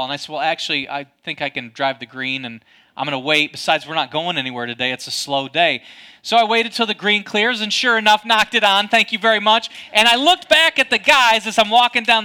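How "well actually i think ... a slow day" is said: unhurried in attitude, low and quick in delivery; casually refuse, pitched lower; casual brush-off. Retold or imitated. Golfer putting off the impatient man behind him, casual brush-off.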